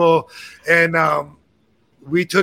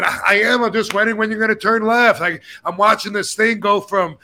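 higher, fast, exasperated complaint; retold yelling; 5 semitones higher than usual. Passenger yelling at the bus driver, exasperated and higher. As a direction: pester the driver with rising irritation.

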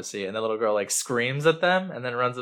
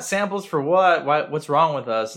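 higher, louder, slow mock alarm; alarmed outcry; 5 semitones higher, 5 dB louder than usual. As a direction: act out startled tenants demanding answers. Tenants alarmed by the samples.

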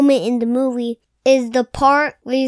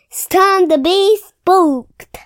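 spooky announcer; 5 semitones higher, 4 dB louder, slower than usual. Acted.

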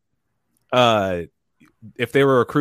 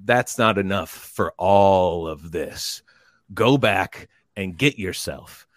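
drill instructor; slower than usual. Retold or imitated. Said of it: "And he goes".

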